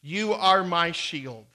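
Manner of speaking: loud, slow cries of Lord, drawn out; slow pleading prayer, very slow on I will trust; crying out to God. Acted. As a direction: cry out to the Lord like David in the psalm. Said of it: "David cries out in this wonderful psalm".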